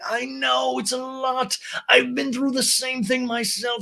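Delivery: high, slow put-on voice; Lisa. Recapper playing Lisa confiding in Ariana, high drawn-out imitation. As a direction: draw it out in an exaggerated high pitch.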